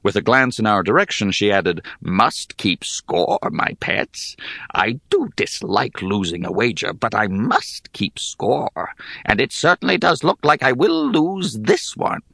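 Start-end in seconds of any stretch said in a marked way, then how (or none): 2.0-12.2 a careless ancient hag muses. Acted. Hag speaking to her pets.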